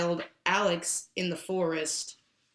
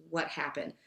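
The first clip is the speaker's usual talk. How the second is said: gentle, not forceful; 4 semitones lower, 6 dB quieter than usual. Retold or imitated. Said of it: "takes her by the chin and looks at her eye".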